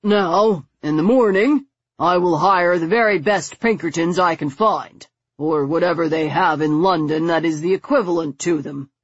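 managing. Acted. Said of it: "he began".

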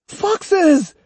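put-on wild high shout of a possessed boy. A narrator's reading. Boy shouting at imagined foxes, wild high yell. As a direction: scream it out, half mad. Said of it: "Iori shouted again".

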